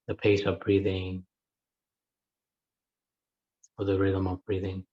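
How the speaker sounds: unhurried meditation guidance with long pauses; guided meditation. Acted. Teacher settling a group into breath awareness, guided meditation. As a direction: guide listeners into breath awareness, leaving space between phrases.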